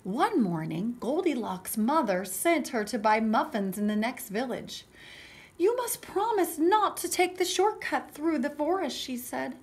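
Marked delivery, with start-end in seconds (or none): 0.0-4.9 animated storybook narration; story reading for children. A narrator's reading. Teacher reading Goldilocks to children, animated storytelling. 5.6-9.0 higher, louder motherly warning; lightly voiced mother laying down a rule; cautioning mother. Mother warning Goldilocks about the forest, firm caution. Mother warns daughter in story.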